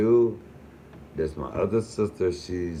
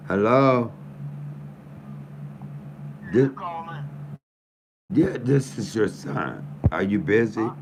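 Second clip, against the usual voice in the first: raised, higher voice, hurt and angry; upset confrontation; 6 semitones higher than usual. Real, not acted. Son confronting his father on the phone, upset and raised. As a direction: plead and scold him at once.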